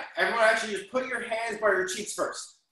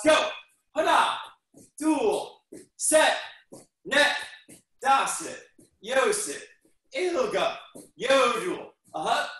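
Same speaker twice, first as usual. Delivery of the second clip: shouted count; 3 semitones higher, slower than usual. Real, not acted. Counting jumping jacks aloud.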